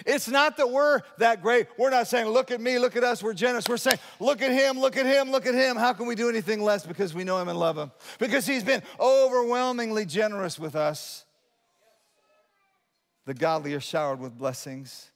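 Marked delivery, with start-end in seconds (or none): 0.1-11.2 high, loud pulpit fervor; forceful preacher in full flight; impassioned preaching. Real, not acted. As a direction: preach it in driving, insistent bursts.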